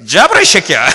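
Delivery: loud, blunt command in dialect; forceful Gyeongsang shout. Retold or imitated. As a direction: bark it like an impatient wife from Gyeongsang. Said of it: "사모님이 이렇게 힘차게 이렇게 말하대". (경상도 사투리로 힘차게 외치는 사모님)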